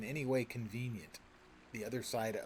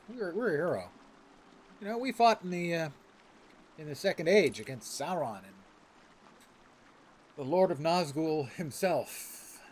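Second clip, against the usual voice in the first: hammed-up outrage, louder and higher; a proud elf ranting about being handed a dull knife; mock indignant hero; 4 semitones higher, 8 dB louder than usual. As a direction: play the wronged elf hero, griping about his knife. Voicing his elf hero indignantly.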